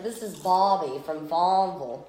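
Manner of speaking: imitated child's Southern accent, r's dropped; Southern drawl. Mother imitating her daughter showing a doll, Southern drawl. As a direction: say Barbie as Southern "Bahbie". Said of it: "her accent".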